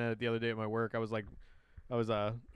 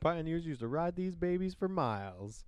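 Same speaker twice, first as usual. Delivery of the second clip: higher-pitched cartoon imitation; playful raised-pitch mimicry; cartoon quote; 5 semitones higher than usual. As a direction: quote it up high like a cartoon character.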